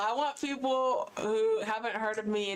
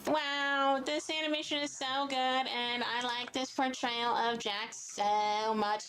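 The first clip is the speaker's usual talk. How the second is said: mock fan voice; 2 semitones higher than usual. Acting out a viewer's reaction.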